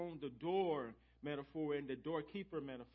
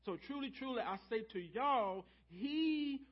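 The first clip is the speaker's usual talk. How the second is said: Southern y'all; 4 semitones higher than usual. Shown as a demonstration. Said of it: "if Jesus was Southern".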